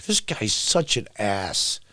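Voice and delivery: low, soft, slow aside; disgusted mutter. Real, not acted. Vlogger sneering at politician, low disgusted mutter. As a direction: mutter the insult under your breath.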